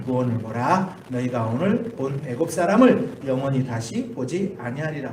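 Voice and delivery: measured, slow-starting Bible reading; scripture reading. Real, not acted. Preacher reading Moses' words for all to follow, measured scripture reading. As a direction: read the verse out deliberately to the congregation.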